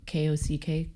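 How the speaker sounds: normal talking voice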